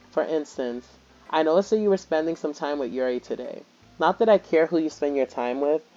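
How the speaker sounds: lightly voiced game character; Natsuki voiced. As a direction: read her lines as a prickly tsundere. Reads Natsuki's lines aloud.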